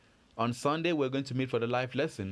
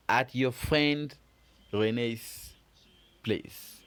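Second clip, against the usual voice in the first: acted fairy line; 3 semitones higher, slower than usual. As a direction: act out the fairy's reply to Remy. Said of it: "It means".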